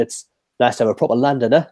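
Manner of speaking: casual Cockney accent. Shown as a demonstration. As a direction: say it like a Londoner, in Cockney. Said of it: "That was my Cockney accent".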